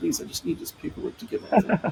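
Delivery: mock whispered, hushed, breathy pleading tone. Retelling a visit to the municipality for immigration papers: imitating own pleading. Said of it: "some, like, pleading, saying".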